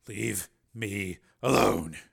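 very slow, word by word; numb dismissal. Acted. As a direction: space out each word heavily. Bereaved man dismisses the guards.

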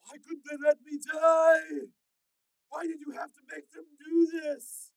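anguished cries sinking into threats; hysterical half sob. Acted. Tormented man vows revenge for being remade, hysterical sobbing. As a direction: sob out the questions, then threaten. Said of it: "His voice was a hysterical half scream, half sob".

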